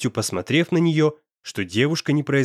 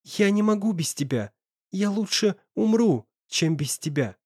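put-on higher, desperate girl's voice; pleading girl; 7 semitones higher than usual. A narrator's reading. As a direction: beg him not to leave.

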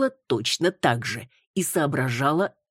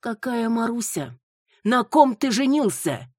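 stunned mother exclaiming; shocked demand; 7 semitones higher than usual. Acted. Mother shocked by bride's name.

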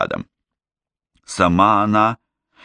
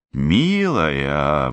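breathed out; 3 semitones lower than usual. Acted. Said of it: "выдохнула Герт".

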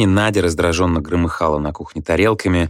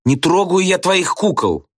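shouting; 12 semitones higher than usual. A narrator's reading. Nadya snaps at child.

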